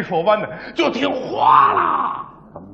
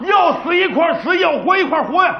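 worker's vow; 3 semitones higher than usual. Retold or imitated. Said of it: "你猜我们工人说什么？".

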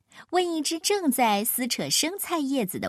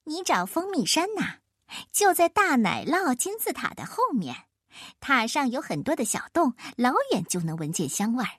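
squeaky mouse. Acted. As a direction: chirp it like a busy mouse. Narrator voices a mouse.

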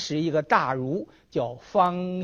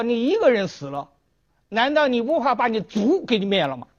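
emperor's threat; 7 semitones higher than usual. Acted.

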